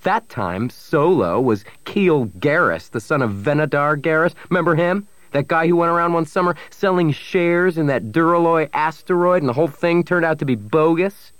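heated accusation pitched high; shouting. A narrator's reading. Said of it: "Pavic kept shouting".

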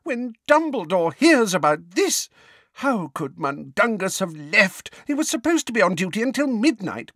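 high-pitched, distraught lament; tragic fretting. A narrator's reading. Neighbour dreading telling Dumbledore the news, tragically distraught. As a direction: fret tragically, stretching the anguished questions. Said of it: "tragically wringing her hands once more".

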